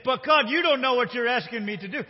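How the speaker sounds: high, forceful objection to God; exasperated, hammed-up outcry; loud protest. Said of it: "But Ananias is saying".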